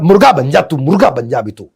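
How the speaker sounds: loud scolding command; angry parent order. Retold or imitated. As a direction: order the punishment harshly. Parent punishing child.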